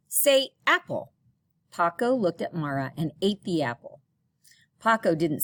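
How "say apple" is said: put-on coaxing girl voice.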